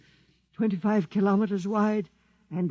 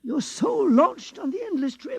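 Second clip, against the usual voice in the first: menacing threat; 7 semitones higher, 5 dB louder than usual. Acted. Priest threatens death.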